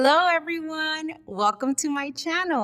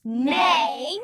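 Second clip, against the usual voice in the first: drawn-out mild neigh; horse neigh; 3 semitones higher than usual. Shown as a demonstration. Teacher leading children in animal sounds, drawn-out neigh. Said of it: "Let's try all together".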